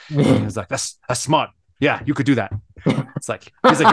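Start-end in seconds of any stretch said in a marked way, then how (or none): 0.7-2.5 lightly imitated Chinese accent; a touch of mock Chinese accent; Lou. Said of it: "he has the thickest Chinese accent".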